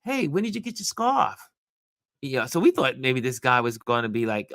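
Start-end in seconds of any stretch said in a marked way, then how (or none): 0.0-1.4 high, calling out across the street as a stranger; retold yell-out. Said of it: "So this guy yells out".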